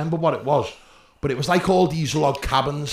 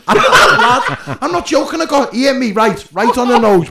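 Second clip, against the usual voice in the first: much higher and louder through real laughter; can barely get it out for laughing; laughing hard; 8 semitones higher, 8 dB louder than usual. Real, not acted. Recounting being punched, high loud laughing.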